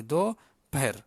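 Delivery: "per" with p and h joined in one puff; joined aspirated p. Shown as a demonstration. Teacher joins pa, ha and ro, airy "per". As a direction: blend an h into the p of "per". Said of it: "dia sambung sekali".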